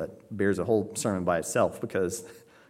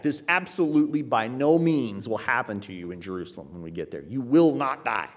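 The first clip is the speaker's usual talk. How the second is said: absolute, emphatic. Acted. Peter assuring Christ of his safety, mildly emphatic. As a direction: state it as certain, weight on the last denial. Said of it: "Peter's being absolute and emphatic".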